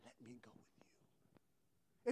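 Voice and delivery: slow, soft whispered plea; begging. Pretend. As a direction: plead under your breath, drawn out. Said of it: "I'm gonna be begging".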